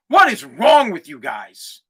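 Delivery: low, slow exasperation; exasperated disbelief. Real, not acted. Podcaster scolding complaining fans, exasperated disbelief. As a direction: scold them slowly, pitched well down.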